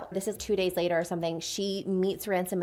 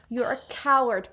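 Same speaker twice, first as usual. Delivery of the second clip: mildly angry accusation; 3 semitones higher than usual. Acted. Acted fight scene with punches.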